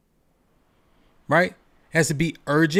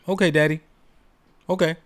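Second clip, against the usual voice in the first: sweet compliant reply; faster than usual. Retold or imitated. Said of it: "He said".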